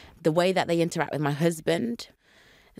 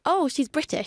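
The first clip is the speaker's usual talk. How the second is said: high, sudden "oh!" of recognition; mock surprised realization; 9 semitones higher than usual. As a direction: imitate officers pitching up in surprise. Police realizing she is British, retold.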